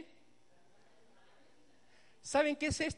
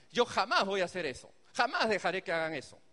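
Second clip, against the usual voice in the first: firm tone. Retold or imitated. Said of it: "ese tono de, de firmeza".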